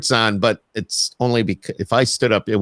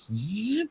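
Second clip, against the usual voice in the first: quiet buzzy whoosh of fabric; imitated zip noise; 11 semitones higher, 9 dB quieter than usual. Husband shows how his wife pulls it out, imitated zip. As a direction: make a quick, soft zipping sound.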